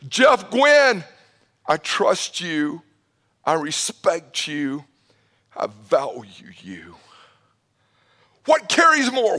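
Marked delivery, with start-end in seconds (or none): 0.1-7.0 sincere. Retold or imitated. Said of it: "look in the eyes of a person and go".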